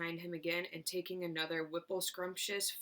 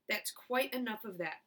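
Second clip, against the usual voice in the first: mild shout; 3 semitones higher than usual. Acted. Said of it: "the fat shopkeeper shouted".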